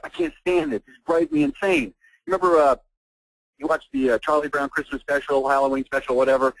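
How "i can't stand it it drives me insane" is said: exasperated, climbing high and slowing at the end; vent, pitch rising as you go; real exasperation; worked up. Real, not acted. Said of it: "Sorry if I'm getting worked up".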